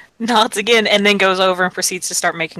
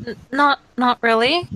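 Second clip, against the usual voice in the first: stammered, slightly higher reply; hesitant; 4 semitones higher than usual. Acted. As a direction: falter shyly, lifting at the end. Shy character answers a compliment.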